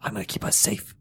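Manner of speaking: breathy whisper, barely voiced. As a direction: hush it as a private promise. Repeated reassurance to hostage.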